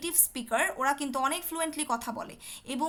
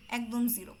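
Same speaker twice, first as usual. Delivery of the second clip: whispered emphasis; 3 semitones lower than usual. Real, not acted. Teacher whispering the harsh exam result. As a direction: hush it out. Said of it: "whispered emphasis".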